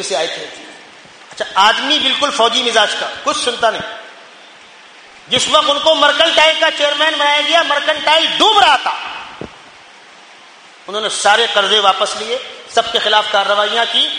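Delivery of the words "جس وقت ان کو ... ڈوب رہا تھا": high, emphatic sermon storytelling; forceful preaching. Acted. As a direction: tell it with a preacher's raised pitch. (پرجوش خطیبانہ انداز)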